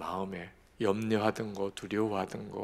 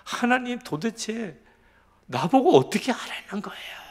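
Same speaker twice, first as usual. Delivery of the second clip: high, loud, desperate cry to heaven; crying out to God; 11 semitones higher, 5 dB louder than usual. Retold or imitated. Pastor shouting at God in his bitter prayer, loud desperate cry. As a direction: shout the complaint up at God, much higher and louder. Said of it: "하나님께 소리소리를 지르고".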